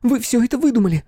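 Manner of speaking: high, loud accusation; desperate denial. A narrator's reading. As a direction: fling the accusation at him. Flora denies, fists clenched.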